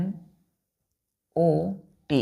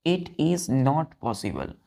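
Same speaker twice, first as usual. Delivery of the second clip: slow dictation; much slower than usual. Shown as a demonstration. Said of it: "dictating example sentence".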